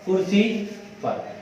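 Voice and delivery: each word drawn out slowly for the class to write; slow dictation. Shown as a demonstration. Teacher dictating to a student, slow and clear. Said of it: "यहाँ लिख देते हैं".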